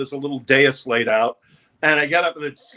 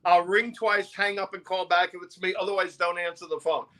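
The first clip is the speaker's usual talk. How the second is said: urgent plea; 3 semitones higher than usual. Retold or imitated. Urgent instructions to father.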